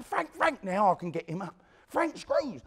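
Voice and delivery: high, urgent warning call. Retold or imitated. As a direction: call out to warn him. Warning Frank the guards come.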